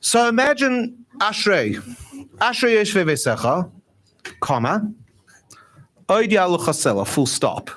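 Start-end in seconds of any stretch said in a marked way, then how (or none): 2.4-7.7 Hebrew prayer read like plain English speech, with spoken punctuation; Anglo conversational tone. Shown as a demonstration. Speaker demos davening Ashrei in an English conversational tone. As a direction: read Ashrei as if talking to someone. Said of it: "davened in the Anglo tone".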